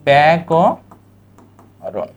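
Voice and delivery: ব্যাকরণ drawn out slowly as bae-ko-ron; slow model pronunciation. Shown as a demonstration. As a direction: stretch ব্যাকরণ into clear syllables. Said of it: "কি হবে উচ্চারণ?".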